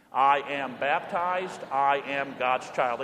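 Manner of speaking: slow, deliberate creed said together; measured call-and-response creed; slow recitation. Shown as a demonstration. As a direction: lead the congregation slowly. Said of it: "Say it with me".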